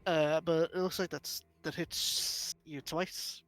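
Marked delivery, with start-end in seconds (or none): 1.6-3.4 "hits" with a long hissing s, slowly; drawn-out s like a snake. Real, not acted. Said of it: "slithering my S's like I'm a fucking snake".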